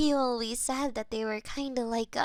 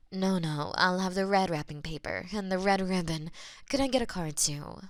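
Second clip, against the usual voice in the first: customer voice; 4 semitones lower, faster than usual. Acted.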